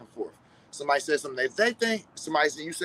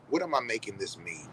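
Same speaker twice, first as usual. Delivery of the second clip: softer, reflective question to herself; quiet self-question; 5 semitones lower, 6 dB quieter than usual. Retold or imitated. Friend asks herself quietly what she makes it mean. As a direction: ask it softer, inward. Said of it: "she'll ask".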